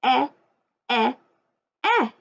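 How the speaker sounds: "Eh" als kurzes, offenes e; short e sound. Shown as a demonstration. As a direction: say "Eh" clipped and open. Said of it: "the sound that the letter E makes".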